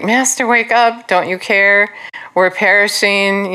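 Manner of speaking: imitating disciples begging for rescue; acted desperate plea. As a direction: plead as frightened disciples, lightly acted. Disciples' panicked plea in the storm.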